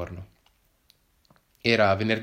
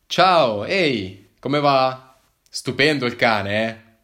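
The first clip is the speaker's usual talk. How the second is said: cheerful greeting; 5 dB louder, much slower than usual. Acted. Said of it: "disse allegramente".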